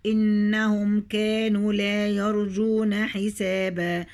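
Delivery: slow tajweed chant with long held vowels; Quran recitation. Shown as a demonstration. Teacher recites the verses to the students, slow chant. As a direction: stretch every madd like a reciter.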